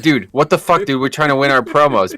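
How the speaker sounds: high-pitched mock outrage at a teammate; exasperated. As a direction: complain up high, half laughing. Scolding friend mid-game.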